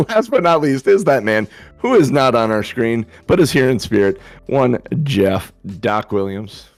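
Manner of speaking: normal talking voice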